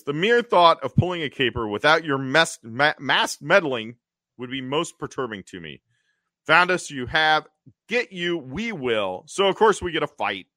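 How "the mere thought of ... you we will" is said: Catwoman. Retold or imitated. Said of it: "Catwoman says".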